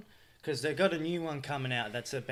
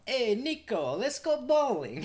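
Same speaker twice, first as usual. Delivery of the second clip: put-on high, laughing Eastern European accent; GTA cousin voice; 10 semitones higher than usual. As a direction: imitate the game cousin, giggling. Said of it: "Just repeating G T A four".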